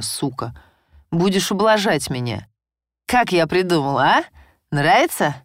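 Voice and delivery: злорадно и громче; запугать жену, насмехаясь; издевательская угроза. Acted. Муж издевается над женой. (грубая злорадная угроза)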